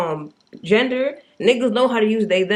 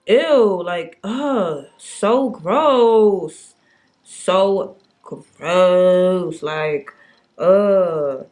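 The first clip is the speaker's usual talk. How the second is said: disgusted; 4 dB louder, much slower than usual. Real, not acted. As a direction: recoil at something gross out loud. Disgusted rant about misgendering.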